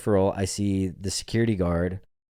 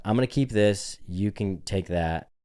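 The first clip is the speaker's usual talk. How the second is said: passive aggressive. Retold or imitated. Guest taking back his tip, passive aggressive. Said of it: "I got so passive aggressive".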